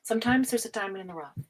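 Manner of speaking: a quick hushed hint of what's coming; secretive whisper. Real, not acted. Tarot reader whispers a teasing hint to Kelly, hushed. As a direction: whisper it fast, like letting out a secret.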